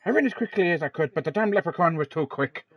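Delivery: put-on lightly performed Irish accent. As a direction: deliver the punchline in an Irish accent. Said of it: "you put on the Irish accent".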